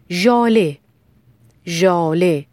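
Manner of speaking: ژاله said carefully with a clear voiced zh; teacher modelling the ژ in ژاله; careful model pronunciation. Shown as a demonstration. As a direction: enunciate the zh opening ژاله, pausing between repeats. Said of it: "تلفظ صحیح حرف ژ".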